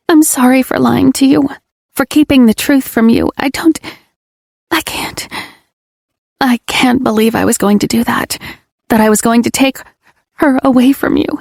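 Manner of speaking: high, pleading confession; tearful apology. Acted. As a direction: beg forgiveness.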